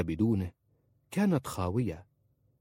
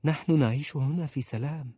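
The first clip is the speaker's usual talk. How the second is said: higher-pitched gentle reassurance; 7 semitones higher than usual. A narrator's reading. Woman soothing her lover that they live in peace, gently. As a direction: reassure kindly, in a lifted voice. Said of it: "قالت في رفق".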